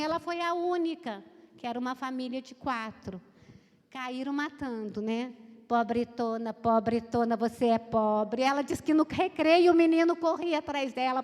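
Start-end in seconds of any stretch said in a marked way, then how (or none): 5.7-8.4 mock schoolyard taunt.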